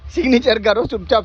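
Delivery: impatient loud demand to sign; loud command. Acted. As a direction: bark it to cut off the stalling. Pushing him to sign, impatient.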